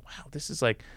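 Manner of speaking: breathy, almost voiceless murmur under the breath; a hushed, deflated little wow; hushed aside. Retold or imitated. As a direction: say it to yourself, barely audible. Inner reaction to being left out.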